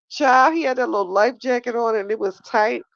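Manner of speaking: giggling through the words; laughing while telling. Real, not acted. Telling her viewers about the movie, laughing. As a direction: laugh it out, high and loud.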